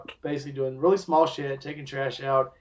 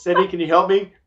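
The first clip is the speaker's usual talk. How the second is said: mock plea; 4 semitones higher, 7 dB louder than usual. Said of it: "me so tired I couldn't".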